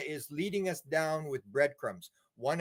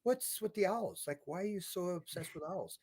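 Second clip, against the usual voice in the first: gentle therapist; 5 semitones higher, 5 dB quieter than usual. Retold or imitated. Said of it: "then she says".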